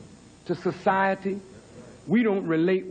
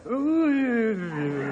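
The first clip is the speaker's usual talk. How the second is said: crooned ooh. Retold or imitated. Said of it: "And then he went to".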